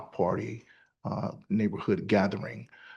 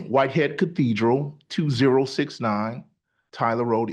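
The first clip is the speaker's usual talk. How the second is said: a bit louder for the mic; speaking up; 3 semitones higher, 3 dB louder than usual. Real, not acted. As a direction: push the voice so all hear. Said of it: "Sorry, could you speak up".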